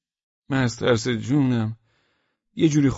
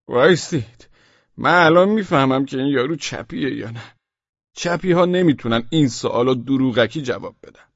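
commanding officer; 5 dB louder than usual. Acted. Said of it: "فرماندهٔ بقیه است گفت".

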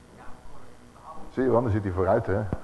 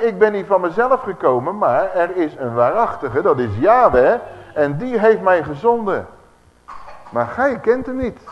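proclaiming loudly; 4 semitones higher, 4 dB louder than usual. Acted. Second reading of the quote.

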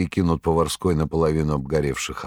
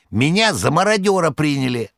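excited; 10 semitones higher, 4 dB louder than usual. A narrator's reading. Behemoth excitedly reports.

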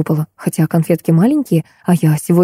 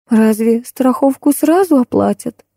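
weary sigh; 6 semitones higher, slower than usual. Acted. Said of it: "устало вздохнула Раиса Демьяновна".

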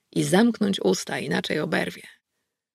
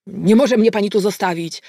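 yelled; 3 semitones higher, 5 dB louder than usual. Acted. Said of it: "wrzasnął Korfanty".

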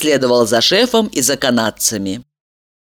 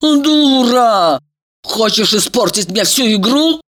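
angry hiss; 6 semitones higher than usual. A narrator's reading. Elizaveta rounds on her friend, furious she'll spoil the game. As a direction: spit the insult furiously. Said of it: "зашипела Елизавета".

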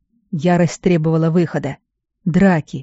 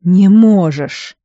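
forced out through hatred; 5 dB louder, much slower than usual. Acted. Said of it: "выдавил Эйнер".

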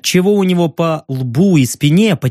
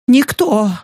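scared denial; 7 semitones higher than usual. Acted. Scared journalist lying.

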